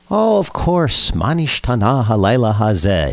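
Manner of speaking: a badly faked British accent on Hebrew; attempted British accent. London friend recalls the Seder question, attempted British accent. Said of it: "he said with a British accent that I can't fake".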